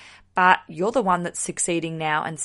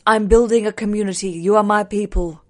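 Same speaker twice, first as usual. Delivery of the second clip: grand queenly proclamation, louder; Khaleesi; 6 dB louder than usual. Retold or imitated. Podcast host addressing her listeners, mock regal Khaleesi. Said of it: "I sound like Khaleesi from Game of Thrones".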